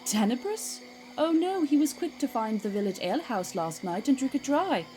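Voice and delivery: loud, bright drow announcing the plan; loud and brisk. Acted. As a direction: call it out loudly across the group. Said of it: "Can you all quit shouting?".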